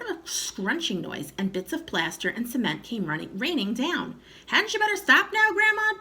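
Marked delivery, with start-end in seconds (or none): 4.5-6.0 put-on high pleading boy's voice; worried plea up to Grandma; young boy urging his grandma to stop; anxious boy. A narrator's reading. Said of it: "George said".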